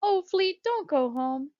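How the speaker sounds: high, loud, urgent pleading; blurted plea. Acted. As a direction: beg a friend not to leave. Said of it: "she blurted".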